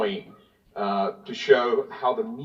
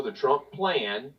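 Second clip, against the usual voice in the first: "plan" drawn out with deliberate emphasis; stress on plan; 2 semitones higher, slower than usual. Real, not acted. Congressman attacking governors' decisions, stress on "plan". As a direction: lean on the word "plan". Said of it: "emphasis on plan".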